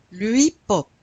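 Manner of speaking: HIP-HOP said loud as "eep-OP", no H; silent H. Shown as a demonstration. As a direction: drop both Hs in "hip-hop". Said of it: "You don't pronounce the H".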